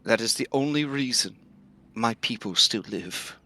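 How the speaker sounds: slow, hushed ancient tree voice; talking tree. Acted. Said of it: "the tree says".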